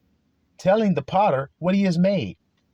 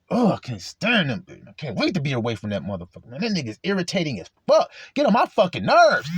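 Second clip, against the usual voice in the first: irritated venting. Acted. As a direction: act out a private rant, building. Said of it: "You say all this privately and secretly".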